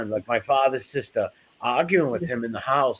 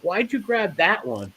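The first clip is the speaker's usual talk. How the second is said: higher, slower mock complaint; mock annoyed; 7 semitones higher than usual. Nephew asking cousin about the lost knife, mock annoyance. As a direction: ask it like a let-down kid. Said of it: "I'm like".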